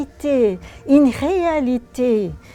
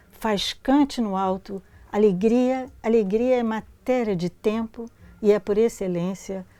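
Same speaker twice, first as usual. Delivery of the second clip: poem reading; 3 semitones lower than usual. Acted. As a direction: lecture de poème en portugais, voix posée. Reads Portuguese poem aloud.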